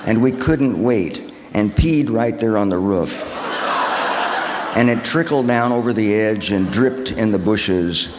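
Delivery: laughing through the words. Retold or imitated. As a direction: chuckle while telling it. Retelling girlhood prank, laughing.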